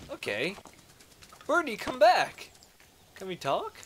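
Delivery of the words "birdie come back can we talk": high, loud call; calling after someone. Pretend. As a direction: call out to a bird that is leaving. Calls after fleeing bird.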